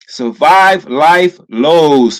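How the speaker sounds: drawn-out heading read; slow, weighty title read; slow emphatic reading. Shown as a demonstration. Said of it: "reads the heading slowly".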